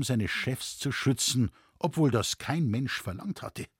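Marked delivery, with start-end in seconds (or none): none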